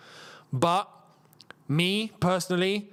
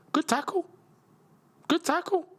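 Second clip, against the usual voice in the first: excited cheer; 11 semitones higher than usual. Real, not acted. Watching a match, reacting live.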